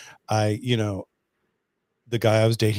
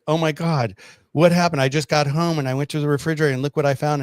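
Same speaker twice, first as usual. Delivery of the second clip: higher, fast, hammed-up fake shock; mock alarm; 4 semitones higher, 4 dB louder than usual. Pranking the boyfriend by text, hammed-up mock shock. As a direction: play it up as a prank. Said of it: "as a joke".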